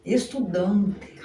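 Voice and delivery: "Estudante" said very slowly, each syllable clear, with the A sound; slow careful spelling-out. Shown as a demonstration. Teacher correcting his spelling for students, slow and deliberate. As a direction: stretch out "Estudante" slowly so the A is heard. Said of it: "aqui é A mesmo".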